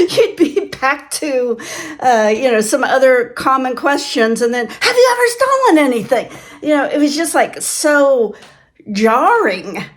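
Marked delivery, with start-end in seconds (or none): 4.7-6.3 pitched way up, breaking into laughter; half-laugh the question out high and loud; laughing mock question. Examiner's jarring question, laughing retelling.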